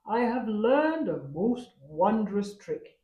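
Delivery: slow, proud leopard boasting. A narrator's reading. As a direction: show off the trick to the family. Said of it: "he boasted".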